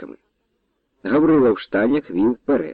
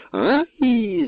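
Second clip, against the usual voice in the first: high yelp of pain; pained cry; 11 semitones higher than usual. A narrator's reading. Nobleman struck across the eyes, high yelp of pain. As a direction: cry out as the whip hits. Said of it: "зарепетував".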